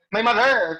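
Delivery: "mother" said as mo-THER, stress misplaced; wrong second-syllable stress. Shown as a demonstration. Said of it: "you don't do it that way".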